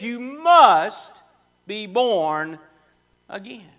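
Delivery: loud punch on must, then dropping away; preacher repeats Jesus' command as forcefully as he could. Retold or imitated. Loud forceful command. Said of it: "He said it as forcefully as he could".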